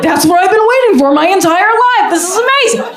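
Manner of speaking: high giddy gush; elated. Retold or imitated. Gushing to herself when he calls her beautiful. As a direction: gush it like a dream come true. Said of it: "I was like".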